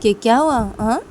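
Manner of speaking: playful taunting brother; teasing younger brother. Acted. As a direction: poke fun at big sister. Ravi teasing his sister.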